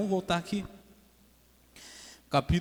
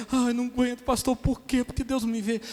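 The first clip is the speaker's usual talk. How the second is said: high mock-crying plea; whiny, higher-pitched fake weeping; imitated tearful complaint; 8 semitones higher than usual. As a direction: act out a weepy appeal to the pastor. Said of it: "indivíduo que tá chorando, dizendo".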